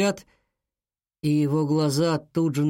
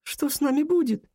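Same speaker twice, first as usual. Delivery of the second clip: put-on high, worried girl's voice; frightened girl; 10 semitones higher than usual. A narrator's reading. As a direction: ask fearfully what will happen. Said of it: "как ей страшно". (высокий испуганный голос девочки)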